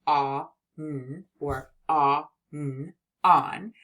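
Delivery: "ah, n" segmented slowly, then blended into "on"; sounding out on. Shown as a demonstration. Teacher sounding out a word for young readers. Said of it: "we see it in the word".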